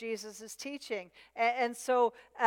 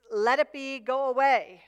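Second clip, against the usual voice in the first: louder, mildly indignant brush-off; indignant dismissal; 6 dB louder than usual. Acted. Demon telling Jesus to go away, mildly indignant and loud. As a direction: wave Him off with some indignation. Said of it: "it's an expression of indignation".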